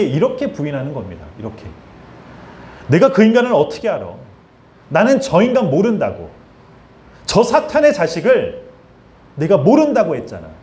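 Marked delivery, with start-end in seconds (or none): 2.9-10.5 angry oath of denial; cursing denial. Acted. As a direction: swear you never knew the man, spitting the curse. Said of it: "여러분, 이게 저주라는 거예요".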